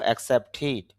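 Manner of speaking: অ্যাকসেপ্টেড ending in "tid", not "ted". Shown as a demonstration. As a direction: say the end of অ্যাকসেপ্টেড with a short i after t. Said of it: "ট sound পেয়েছে". (অ্যাকসেপ্টেড-এর শেষে "টিড", "টেড" নয়)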